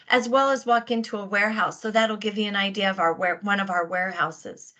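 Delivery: short of breath, real; breathless, talking between breaths. Real, not acted. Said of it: "Sorry, I seem a little short of breath this morning".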